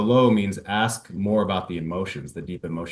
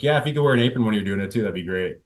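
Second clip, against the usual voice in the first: fast teasing quip; joking comeback; 3 dB louder, much faster than usual. Shown as a demonstration. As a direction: rattle off the joke lightly. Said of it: "So make a joke".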